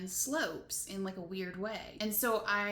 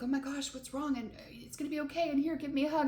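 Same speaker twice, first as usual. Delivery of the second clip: retold comforting; 5 semitones higher, faster than usual. Cashier comforts her in the story.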